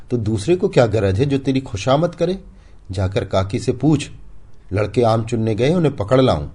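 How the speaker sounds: high, loud bitter reply; loud, wounded husband snapping at wife; angry retort. Acted. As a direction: push back at her teasing. Husband angrily answering taunt.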